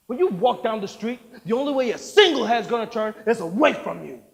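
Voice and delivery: loud ranting producer with shouted peaks; furious tirade. Acted. Producer raging at the actor who corrected him. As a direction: rip into him. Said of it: "Howard ripped into me".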